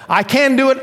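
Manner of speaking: high, confident mock elation; upbeat. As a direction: act the emotional high, pitch way up. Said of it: "Up, depressed".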